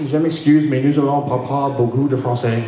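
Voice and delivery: halting, low-pitched broken French. Acted. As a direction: attempt apologetic French as a poor speaker. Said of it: "in my best broken French".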